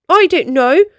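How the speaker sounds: insist, mildly cross; understated huffy dragon demanding a pickup. Acted. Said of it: "she demanded".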